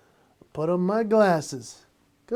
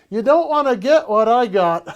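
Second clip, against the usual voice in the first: louder, higher menacing warning; creepy threat; 4 semitones higher, 7 dB louder than usual. Pretend. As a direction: lean in and spook them. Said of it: "I just slowly remove mine and I go".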